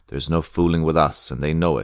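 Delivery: plain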